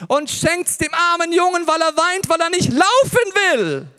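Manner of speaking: viel höher und lauter, langsam und empört; empört erzählt. Real, not acted. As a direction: die Empörung über die Nachbarin rauslassen. Empörte Erzählung über die Nachbarin. (Prediger erzählt empört, wie die Nachbarin sich einmischt, hoch und laut)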